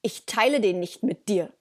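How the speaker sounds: defiant, possessive warning in a dog's role; emphatic, mock-bratty refusal to share; cheeky dog. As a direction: play an insolent dog guarding its bone. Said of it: "einfach rotzefrech ist und sagt".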